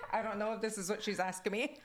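laughing, a bit quick; laughing quote. Retold or imitated. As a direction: giggle through the worried thought. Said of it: "I'm like".

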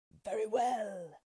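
a pack growling its assent slowly; wolves answering. A narrator's reading. Wolves answering the witch, slow and loud.

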